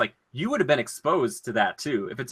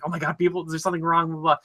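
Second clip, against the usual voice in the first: higher, half-joking alarmed cry up to the ship; a wife calling up to her husband, a touch of mock panic; mock panicked call; 6 semitones higher, faster than usual. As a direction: play the frightened wife calling for help, lightly. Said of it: "she's, like, calling back up to him".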